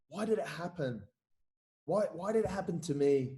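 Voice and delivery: mildly plaintive, soft self-pity; playing the victim. Retelling his talk with his wife in ICU, mild self-pity. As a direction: ask softly, a touch sorry for yourself. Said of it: "I was playing the victim".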